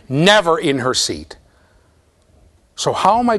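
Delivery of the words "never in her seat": never stressed and drawn out, slow; emphasis on never. Shown as a demonstration. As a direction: lean hard on never, slowly. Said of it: "let me emphasize that".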